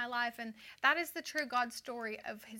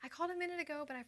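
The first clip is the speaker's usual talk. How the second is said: higher, a touch nervous rambling; rambling voicemail; 4 semitones higher, 4 dB quieter than usual. Retold or imitated. Second voicemail to Kent, higher nervous rambling. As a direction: chatter on a bit too brightly. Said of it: "left another voicemail that said".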